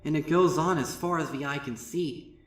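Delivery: hushed, trailing off in awe; hushed wonder. Acted. Twilight describing the plateau to Starlight, hushed wonder.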